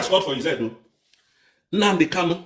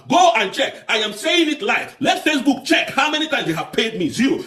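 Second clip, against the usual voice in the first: defiant shout; 5 semitones higher than usual. Real, not acted. Defiant challenge to Facebook.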